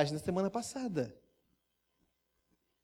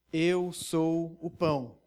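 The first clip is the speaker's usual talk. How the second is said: each word laid down slowly; measured, weighty statement; slow solemn declaration; slow, deliberate quote; much slower than usual. Shown as a demonstration. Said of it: "E Jesus repete por três vezes".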